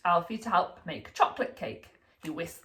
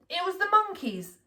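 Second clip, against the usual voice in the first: put-on little boy protesting; 9 semitones higher than usual. A narrator's reading. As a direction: plead your innocence like a small boy. Child voice protesting.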